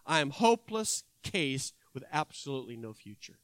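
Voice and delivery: low trembling voice. Acted. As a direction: speak low and trembling, near tears. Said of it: "in a low, trembling voice".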